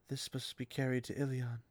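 soft, hushed line; soft-spoken sorceress; softly. Acted. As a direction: say it gently, almost reverently. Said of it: "she said softly".

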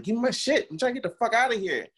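loud, high-pitched exasperated demand; retold angry yelling. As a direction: re-enact losing your temper, voice shooting up. Acted quarrel over his belongings.

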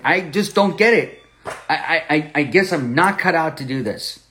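a touch of frustrated protest; retold heated frustration. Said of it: "It was a very heated argument".

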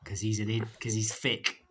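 whispered aside; whispering. Real, not acted. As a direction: drop to a whisper. Insult dropped to a whisper.

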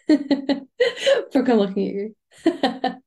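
playful call-out broken up by giggles; laughing as you single out a friend; laughing tease. Real, not acted. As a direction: say it through real laughter. Teasing a listener about dozing off.

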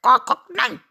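loud clucks and a sharp no; high, loud acted yell; alarmed rooster shout. A narrator's reading. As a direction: cry out in panic as a cartoon rooster. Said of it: "schrie er".

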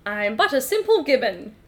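simple Gibbon. Acted. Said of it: "as an idiot Gibbon".

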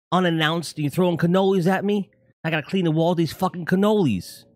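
mock New York Italian scolding a friend; New York accent. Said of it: "my New York accent is horrible".

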